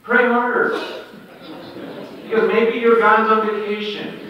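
mock-encouraging jeer; mocking taunt. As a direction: taunt them to try harder. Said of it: "he's going".

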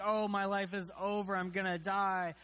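mock melodrama. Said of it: "this weird flair for the dramatic".

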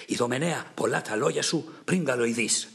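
understated angry taunt at Idomeneus; quarrelsome retort. Acted. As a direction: put the old king down, a touch angry. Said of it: "τα βάλε μαζί του".

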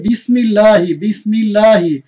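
বিসমিল্লাহি with a thin light লাম; recited model word. Shown as a demonstration. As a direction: chant it for the class to repeat. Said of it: "তারপর আমরা কি বলি?". (পাতলা লামে পাঠ)

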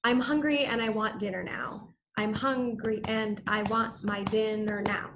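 "I'm hungry and I want my dinner now" in da-DUM beats, stress on "hun", "want", "din", "now"; iambic pentameter. Shown as a demonstration. Teacher demonstrating iambic rhythm to the class, steady beat. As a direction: tap out the heartbeat rhythm, ten even syllables. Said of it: "using iambic pentameter".

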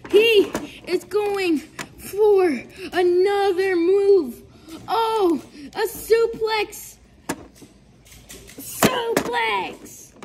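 excited ringside wrestling commentary; play-by-play commentary. Acted. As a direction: call the match live, hyped up.

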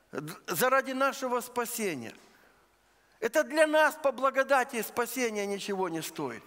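ordinary delivery

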